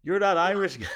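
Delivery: a fan calling out high and loud, excited; high, loud, thrilled recognition. Retold or imitated. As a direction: play the starstruck fan spotting him. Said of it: "he's like".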